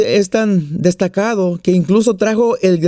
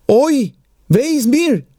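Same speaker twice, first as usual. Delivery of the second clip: higher-pitched, hammed-up sigh of woe; sighed lament; 4 semitones higher, much slower than usual. Third Jewish grandmother joins the lament, mock sighing. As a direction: wail mildly like a worrying grandmother. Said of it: "La tercera da un suspiro".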